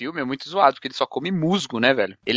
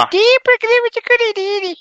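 indignant outburst; 5 dB louder than usual. Real, not acted.

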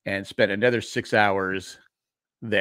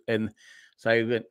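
ordinary talk, nothing marked

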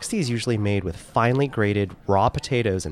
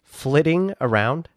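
slow, higher incredulous repeat; incredulous echo; 6 semitones higher, slower than usual. Real, not acted. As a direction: echo the word back in disbelief. Echoes wife's word back.

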